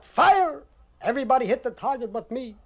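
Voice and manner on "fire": mild mock holler. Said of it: "The sergeant hollered".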